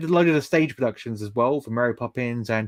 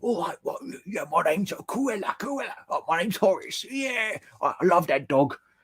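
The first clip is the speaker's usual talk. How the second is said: put-on high-pitched, awful, clumsy London accent; 6 semitones higher, 4 dB quieter than usual. Mocking an actor's terrible English accent in the film Cruella, bad London accent as Horace. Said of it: "His London accent was awful".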